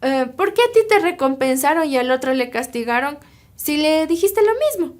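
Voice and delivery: mildly amazed retold question, rising in pitch; imitated astonishment, lightly played; astonished. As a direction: ask it in puzzled wonder, acting out a courtier. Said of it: "este cortesano estaba asombrado".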